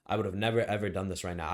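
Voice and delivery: "never" rising, then "ever" landing hard; "never" pushed up, "ever" pushed down; stress on never ever. Real, not acted. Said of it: "You should never, ever do this".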